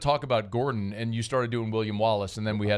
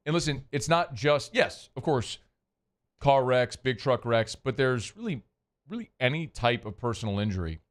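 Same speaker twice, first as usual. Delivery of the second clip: host reading a law-firm ad live on air; 2 semitones lower than usual. Acted. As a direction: sell it like a radio spot. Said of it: "I actually get to do the Gordon read right now".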